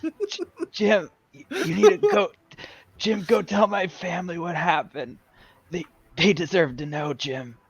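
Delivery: cold, stammering plea with trailing ends; dying friend. Pretend. Dead friend begs Jim to tell his family, stammering weakly. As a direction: beg haltingly as a man fading away. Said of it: "pretending to be his dead friends".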